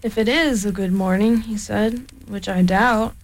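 lightly voiced gloomy donkey; a hint of a despondent Eeyore. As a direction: mope it out like a sad old donkey.

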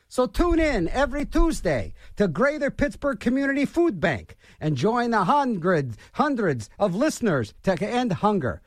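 upbeat radio ad read; radio promo voice. Shown as a demonstration. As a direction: sell it like a station promo. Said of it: "read the P S A like a radio promo".

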